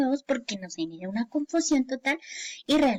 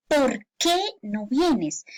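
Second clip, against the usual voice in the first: POR QUÉ as two slow, separate words; slow question with a gap inside "por qué"; pause between words; much slower than usual. Shown as a demonstration. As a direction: space out "por qué", stressing QUÉ. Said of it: "tiene que haber ese espacio".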